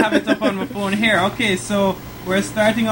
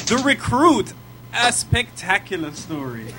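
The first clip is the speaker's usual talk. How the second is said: sarcastic. Real, not acted. Podcast co-host reading out an actor's film list, sarcastic. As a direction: announce it with amused sarcasm. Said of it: "the sarcasm in his voice".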